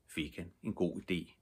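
ordinary delivery

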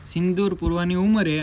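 put-on showing the child how to say it with flair; coy and showy.

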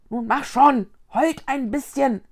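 urgent, pushy and loud; impatient hiss. Acted. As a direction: hurry them along, impatient. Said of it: "zischte Vicky".

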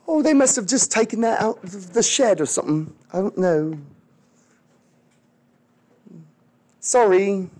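hammed-up lame excuse; mock-innocent shrug of a voice; feigned innocence. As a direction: play dumb with a lightly mocked excuse. British make lame excuse, acted.

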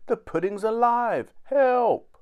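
high, loud cry for help; panicked mother raising the alarm. A narrator's reading. Frightened mother cries for help.

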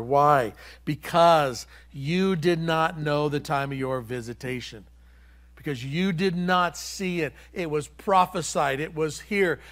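loud, emphatic preaching delivery; declaimed scripture. Acted. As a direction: proclaim Jesus' lament to the city. Preaches Jesus' warning to city.

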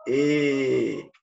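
"E" con comisuras hacia afuera; kinema de la E. Shown as a demonstration. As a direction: estira los labios en "E". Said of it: "el kinema de la E sería el". ("E" exagerada y sonriente)

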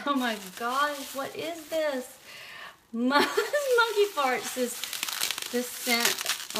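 high laughing disbelief; laughing surprise. Real, not acted. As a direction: laugh through the words. Laughing at the scent name.

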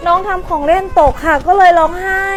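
nanny defending herself to the mother; tearful excuse. Acted. Nanny explains fearfully. (พี่เลี้ยงแก้ตัวเสียงสั่นจะร้องไห้)

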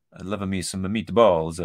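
mock Italian accent. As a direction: put on a jokey Italian accent. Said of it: "doing accents like that".

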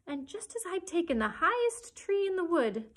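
high, loud, aggrieved complaint; rising to a shriek. A narrator's reading. Pigeon complains of serpents reaching its tree, shrieking. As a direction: wail the grievance, climbing towards a shriek. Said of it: "raising its voice to a shriek".

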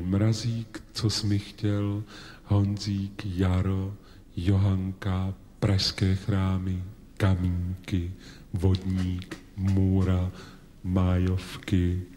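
slow, measured read-out of titles; dictating a list. Real, not acted. Reading out song titles to the audience to memorise, slow dictation. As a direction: dictate each title slowly, item by item. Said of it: "Tak čtu písničky, které si musíte pamatovat".

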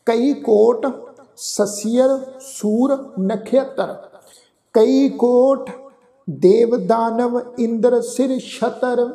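slow, measured verse recitation; deliberate chant-like reading with pauses; scripture recitation. Shown as a demonstration. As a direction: recite line by line with held final syllables.

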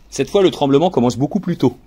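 plain reading voice

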